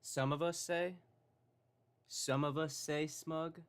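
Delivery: high, loud questioning repeat; incredulous echo. Real, not acted. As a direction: echo it back in mock disbelief. Echoes vlogger's words in disbelief.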